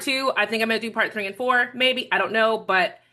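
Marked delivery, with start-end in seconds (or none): 2.6-3.0 eating while talking; slurping lunch. Real, not acted. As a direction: talk between bites of lunch. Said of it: "sorry for the slurping and the, and the forking thing".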